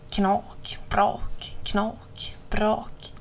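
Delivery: hushed 'knak, brak' noises; crackling bush sounds. A narrator's reading. Reader sounds crow pushing into bushes, hushed crackles. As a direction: break each crack off separately.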